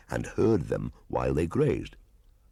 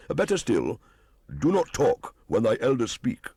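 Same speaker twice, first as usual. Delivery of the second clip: an elder putting a brat in his place; raised, affronted hunter voice; indignant old hunter; 7 semitones higher than usual. Acted. Buldoo scolds Mowgli.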